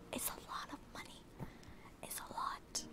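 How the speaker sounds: very soft, nearly voiceless murmur; hushed aside. Real, not acted. Streamer admitting to chat about the money, hushed. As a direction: drop it to a near whisper.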